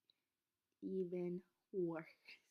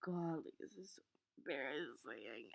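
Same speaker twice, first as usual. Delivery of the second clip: whispered mortified; 4 semitones lower, 5 dB quieter than usual. Retold or imitated. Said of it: "I was like".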